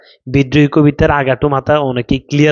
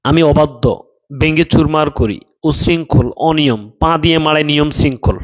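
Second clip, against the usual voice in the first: teacher reciting the poem to his class, firmly; declaiming the poem. Shown as a demonstration. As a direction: declaim each line with a firm falling end. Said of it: "আমি বলছি এভাবে".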